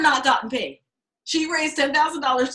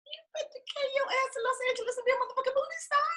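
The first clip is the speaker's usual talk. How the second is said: bossy urging; 12 semitones higher, 9 dB quieter, faster than usual. Retold or imitated. Ordering Angela to Hollywood.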